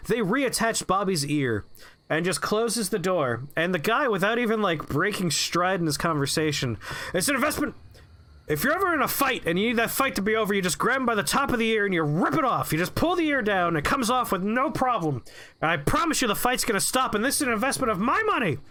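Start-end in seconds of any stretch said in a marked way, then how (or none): 0.1-1.6 smiling, much higher on great news; a chipper employee delivering good news; cheery smile. Retold or imitated. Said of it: "big smile on his face". 7.1-18.6 manic boss. Retold or imitated. Boss resumes rant about ears.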